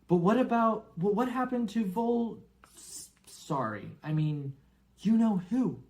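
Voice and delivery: high, stammering nervous question. Acted. Harry asking Hagrid about Voldemort, high nervous stammer. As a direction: trip over the forbidden name.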